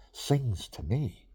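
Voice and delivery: slow savoring. Real, not acted. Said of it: "Instead of me singing to it".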